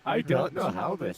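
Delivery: nineties alien voice. Pretend. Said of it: "Like a nineties alien".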